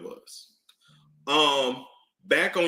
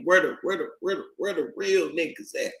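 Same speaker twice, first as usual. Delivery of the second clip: mocking women asking; 4 semitones higher than usual. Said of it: "So when you asking for traditional men".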